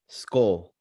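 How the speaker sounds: a hushed, breathy "Skull." as the doctor; whispered doctor quote. Retold or imitated. Quoting his Vikings-fan doctor friend to the co-host, whispered. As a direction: whisper it like a secret. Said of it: "as the good doctor would say".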